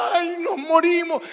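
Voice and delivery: a passenger crying out in fear; panicked cry. Retold or imitated. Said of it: "gente gritando".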